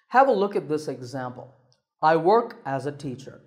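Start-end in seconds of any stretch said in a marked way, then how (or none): 2.0-3.4 "I work as a teacher" going down on teacher; falling tone. Shown as a demonstration. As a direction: let the pitch drop at teacher. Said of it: "This is a falling tone".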